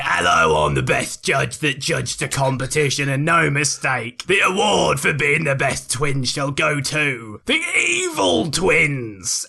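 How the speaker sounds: pompous judge voice. Acted. Judge announces award.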